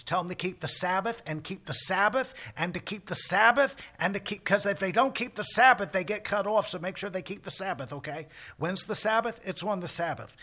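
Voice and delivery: high, loud, rushed insistent God voice; manic God. Retold or imitated. God pressing Moses before he leaves the mountain, manic and loud. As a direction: hammer the Sabbath like a frantic boss. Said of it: "What's all this manic Sabbath stuff?".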